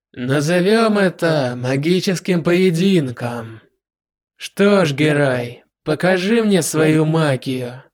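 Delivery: slow, self-satisfied villain; smug proclamation. Acted. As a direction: proclaim it smugly and slowly. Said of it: "самодовольно провозгласил".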